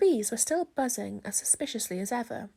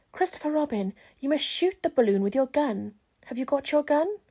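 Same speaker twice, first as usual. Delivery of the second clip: higher, louder bear voice, earnest; Pooh voice; 4 semitones higher, 5 dB louder than usual. Acted. Pooh tells Christopher Robin the bees are wrong. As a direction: announce it like a bear with a big decision. Pooh's voice, held.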